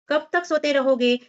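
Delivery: put-on a mother rousing her sleeping children; mother calling out. A narrator's reading. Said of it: "माँ ने जोर से पुकारा".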